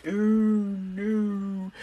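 high, drawn-out playful "oh no"; mock dismay. Podcaster laments the missed Sunday poetry reading, mock dismay.

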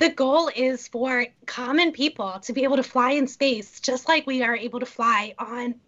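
hoarse, strained voice; rough throat cracking through the words; losing voice. Real, not acted. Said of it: "I'm losing my voice here".

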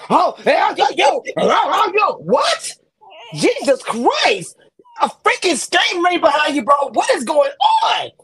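high, startled exclamations; alarmed calling out. Acted. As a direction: call out in mock disbelief at someone. Acting out alarm at man's outburst.

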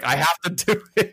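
high, hammed-up priest quote; mock-earnest priest. Priest volunteers for the tracheotomy, mock earnest. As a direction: act out a priest all too keen.

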